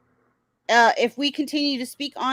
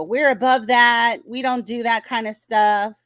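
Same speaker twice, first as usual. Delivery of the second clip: mock superior tone; 5 dB louder than usual. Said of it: "she's like".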